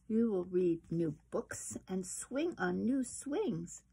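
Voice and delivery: slow, gentle reassuring mother. Acted. Mother raccoon reassuring Chester about school, gentle and slow. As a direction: soothe a scared child slowly. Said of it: "she told him gently".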